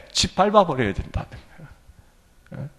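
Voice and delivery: ordinary delivery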